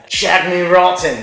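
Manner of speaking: loud, high catchphrase impression; Austin Powers. Game player quoting a film catchphrase, loud spy impression. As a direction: belt it out like the randy spy. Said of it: "didn't Austin Powers say that".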